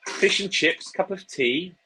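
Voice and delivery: high, hammed-up English accent; mock English accent. Guest parodying people here who try English accents, high mock English. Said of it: "try to speak in English accents".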